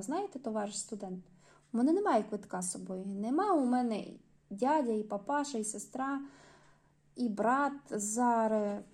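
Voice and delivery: mild coaxing. Acted. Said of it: "знизила тон і ласкаво сказала".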